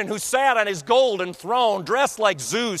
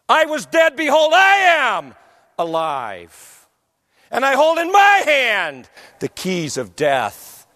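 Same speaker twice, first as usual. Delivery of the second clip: booming divine voice; 5 dB louder than usual. Acted. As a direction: proclaim like thundering waters. Voice of the risen Lord, thundering.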